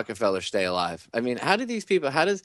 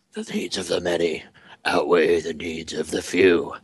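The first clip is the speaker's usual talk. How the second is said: lightly acted Spock; 3 semitones lower than usual. Caller quoting Spock's Wrath of Khan scene, lightly acted. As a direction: recite it with a hint of solemn weight. Acts out Spock's film line.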